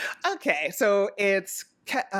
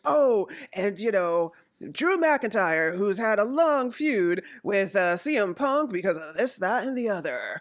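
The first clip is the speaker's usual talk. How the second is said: imitated announcer commentary. Imitating announcers introducing wrestlers' feuds, lightly voiced commentary. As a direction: draw out the names like a commentator. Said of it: "announcers are, you know, doing their commentary".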